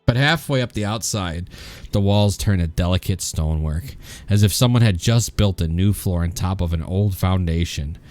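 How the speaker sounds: calm descriptive read-aloud; scene narration. Acted. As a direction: set the scene for players.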